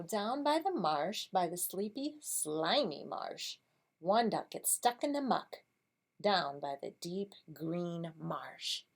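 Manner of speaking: slow, measured story reading; picture-book reading. Shown as a demonstration. Teacher models reading the marsh story for kids, slow storybook voice. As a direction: read it slowly as if to young children.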